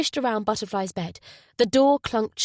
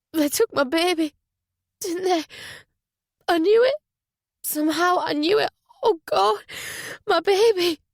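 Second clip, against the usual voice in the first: much higher, louder, rising panic; anguished cry; 9 semitones higher, 3 dB louder than usual. Acted. Butterfly realising her baby was taken, panicked cry.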